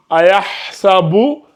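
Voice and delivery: lente psalmodie de ayahsabu allam yarahu avec le lam doublé; réciter très lentement en modèle pour les élèves; récitation coranique. Shown as a demonstration. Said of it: "c'est ça la règle dont on a parlé". (le professeur récite le verset lentement pour l'élève)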